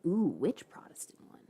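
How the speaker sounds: soft unvoiced whisper. Real, not acted. Whispering a question back to chat. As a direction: ask it under the breath.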